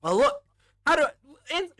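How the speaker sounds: loud, high acted protest; flustered, defensive outburst. Mikey excuses doubting his friend Leo, flustered outburst. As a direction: protest as if overwhelmed, pitch climbing high.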